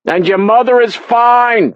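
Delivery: dad yelling. A narrator's reading. Dad shouts reassurance from the background, loud. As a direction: yell it across the room. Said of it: "Dad yelled out".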